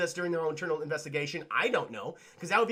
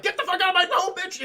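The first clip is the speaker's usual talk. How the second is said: mock shout, much higher and louder; angry yell; 11 semitones higher, 5 dB louder than usual. Husband throwing his wife out of the house, imitated angry yell. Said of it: "He's like".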